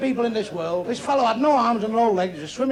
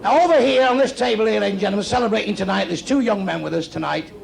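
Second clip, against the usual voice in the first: compère presenting guests to the room; club announcer. Acted. Comic to audience, honouring young men at a table, announcer style.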